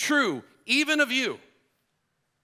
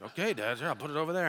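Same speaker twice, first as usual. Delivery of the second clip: meek son; 5 dB quieter, much faster than usual. Retold or imitated. Son placating his angry dad.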